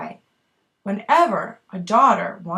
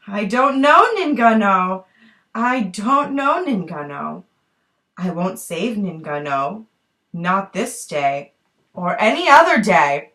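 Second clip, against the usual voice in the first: teasing sing-song hunter; 4 semitones lower, 4 dB louder than usual. Acted. Hunter refuses again.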